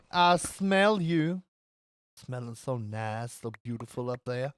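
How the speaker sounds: hammed-up American Southern drawl, savouring a scent; exaggerated American accent. Streamer sniffing out diamonds for chat, exaggerated American Southern accent. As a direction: put on a Southern accent with long hums. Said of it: "this is the most offensive accent I have ever done".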